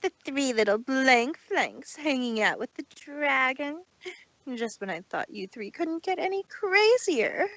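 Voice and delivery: arrogant. Acted. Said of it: "typical air of arrogance".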